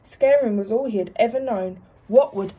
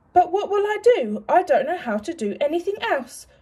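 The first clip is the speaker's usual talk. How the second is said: plaintive worry; 6 semitones higher than usual. Acted. Alan pleading, lost.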